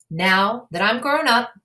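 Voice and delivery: put-on a small boy rabbit insisting he's grown up; little rabbit. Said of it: "he told Mother Rabbit".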